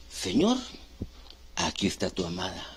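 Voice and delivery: rising call to the Lord, then soft and low; reverent presentation. Acted. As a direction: present the beloved in a hushed, humble voice.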